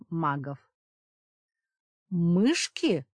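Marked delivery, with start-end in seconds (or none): 2.1-3.1 loud outraged cry; indignant shout. A narrator's reading. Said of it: "возмущённо выкрикнул Порох".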